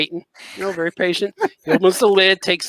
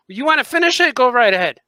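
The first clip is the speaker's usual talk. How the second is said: mock-indignant retort, higher pitched; real mad, retold; 6 semitones higher, 3 dB louder than usual. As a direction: retell a huffy challenge to a pushy customer. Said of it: "I get real mad".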